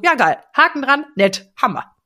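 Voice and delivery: shrugging "ja geil", lightly mocked; casual mock approval; mock bored ticking off. Shown as a demonstration. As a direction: tick it off without caring. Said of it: "sondern so".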